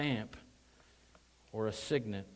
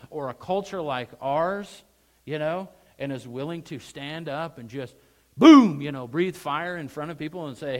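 loud, high fired-up preaching; hyped-up fire-breather delivery; excited voice inflection; 5 semitones higher, 12 dB louder than usual. Shown as a demonstration. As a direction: build excitement on purpose, loud and punchy. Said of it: "I'm using a little voice inflection".

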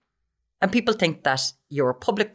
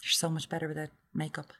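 snide quote; 2 semitones lower, 13 dB quieter than usual. Retold or imitated. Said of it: "it does come from men".

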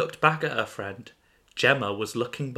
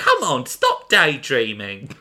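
louder, slower nagging friend; Gemma's voice; 6 dB louder, slower than usual. Acted. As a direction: call her out of a daydream, slow. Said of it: "I presume that's Gemma speaking".

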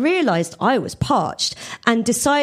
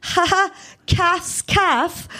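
higher, slow playful pun; quip; 9 semitones higher, slower than usual. A narrator's reading. Suze quips to Kathy about her name, playful and high. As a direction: tease the name with a grin. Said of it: "I quipped".

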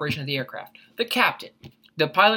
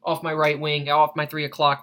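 mayday radio call. Shown as a demonstration. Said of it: "radio one two one point five".

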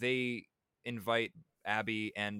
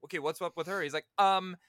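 stammering brother; 8 semitones higher, 5 dB louder than usual. Retold or imitated. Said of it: "his brother is like".

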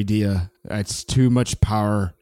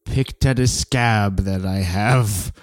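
man doing a woman's voice; 2 semitones lower than usual. Acted. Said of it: "impression of your mom".

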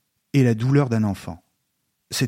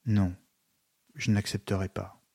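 softer, gentle refusal; gentle answer; 3 semitones lower, 8 dB quieter than usual. A narrator's reading. Alyosha answers Ivan's challenge, softly and gently. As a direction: answer him gently, barely above a breath of voice. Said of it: "répondit doucement Alyosha".

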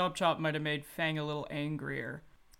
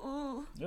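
mock sultry ooh; 7 semitones higher, 7 dB quieter than usual. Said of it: "I didn't like that noise I made".

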